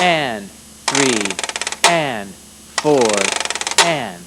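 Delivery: steady count in time with the strokes; counting along to the beat. Shown as a demonstration. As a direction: count it out over the playing. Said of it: "It sounds like this".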